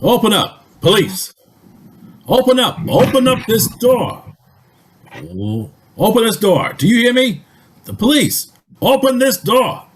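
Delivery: bang on the door and bellow; shouting at the door. Acted. Police pounding on door, shouting.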